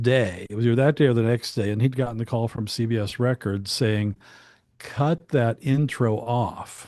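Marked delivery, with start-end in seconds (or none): 4.8-6.9 slow, word-by-word instruction; emphatic retold order. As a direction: spell out the order, one slow word at a time. Retelling the record label's order.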